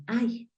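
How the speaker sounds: "ay" as the English long I; I pronounced "ay"; open I sound. Shown as a demonstration. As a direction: say "ay", a glide from a to i. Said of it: "la I suena".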